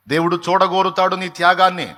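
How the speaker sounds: loud fervent proclamation; preaching at full force. Acted. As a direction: hammer it home to the congregation.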